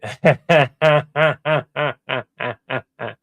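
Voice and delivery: long staccato laugh; loud real run of ha-ha laughs; laughter. Real, not acted. Voice actor reacting to the playback, long laugh. Laughing at the played-back take.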